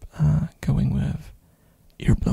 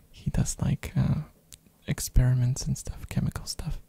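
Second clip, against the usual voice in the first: ASMR whisper. Real, not acted. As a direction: whisper close to the mic.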